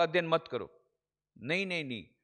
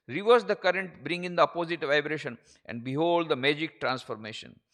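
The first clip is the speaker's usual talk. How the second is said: preaching; much slower than usual. Acted. Declaims quotation in slow English.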